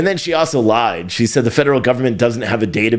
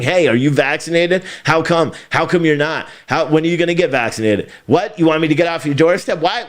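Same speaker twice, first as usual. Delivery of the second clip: pushy door-knocker; 4 semitones higher than usual. Retold or imitated. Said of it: "knocking on a door and saying".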